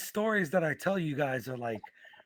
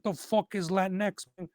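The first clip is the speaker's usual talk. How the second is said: imitated Mexican guy; 5 semitones higher than usual. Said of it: "this guy's telling me".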